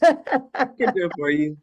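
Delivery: chuckling offer; laughing. Real, not acted. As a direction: say it while laughing.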